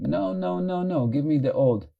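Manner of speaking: a hint of a stubborn child refusing change; whiny mind. Teacher voicing the mind that clings to habit, lightly whiny. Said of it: "your mind is doing".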